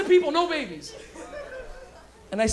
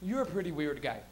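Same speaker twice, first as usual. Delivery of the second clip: low, soft frank remark; quiet mock honesty; 6 semitones lower, 9 dB quieter than usual. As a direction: imitate a friend being gently honest. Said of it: "he was being so honest".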